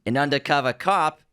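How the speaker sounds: put-on undercover cop with a Boston accent. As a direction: say cop like a Southie. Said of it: "You gotta say it in a Boston accent".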